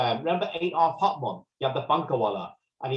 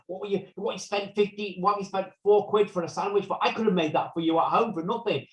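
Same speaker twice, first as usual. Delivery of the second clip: higher-pitched imitation of an Indian-accented mum; 6 semitones higher than usual. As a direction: lightly put on an Indian mum's accent. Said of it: "they'll do it in an Indian accent".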